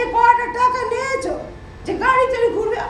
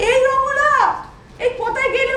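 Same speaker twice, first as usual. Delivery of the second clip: calling Ramola across the house, raised and laughing; 2 semitones higher than usual. Acted. Mother-in-law calls Ramola for her slippers, laughing. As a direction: call out for the slippers, half laughing.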